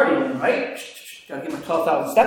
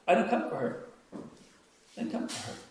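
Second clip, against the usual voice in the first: hushed Jesus; 4 semitones higher, 10 dB quieter than usual. Retold or imitated. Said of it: "turns to his disciples, and says".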